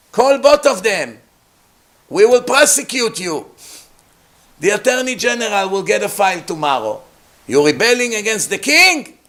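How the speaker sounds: high, loud angry threats; angry king. Pretend. Moshe imagined as an angry king threatening the rebels, high and loud. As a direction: threaten them like an outraged ruler. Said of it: "time for Moshe to get angry".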